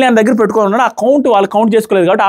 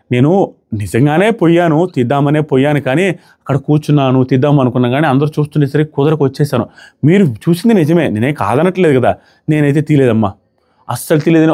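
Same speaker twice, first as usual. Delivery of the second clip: feigned innocence; 4 semitones lower than usual. Retold or imitated. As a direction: plead innocence in an unhurried, lowered voice. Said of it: "అమాయకమైన face పెట్టి ఏమన్నా acting". (అమాయకంగా నటిస్తున్నట్టు అనుకరణ)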